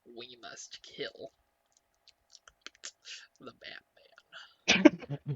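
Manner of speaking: half-hearted slow villain line; Joker voice. Acted. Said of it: "that was pretty bad".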